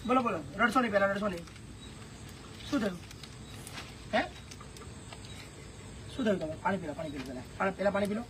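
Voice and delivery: hushed, tender consoling; gentle soothing. Real, not acted. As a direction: soften right down to calm someone crying. Consoling a crying old woman.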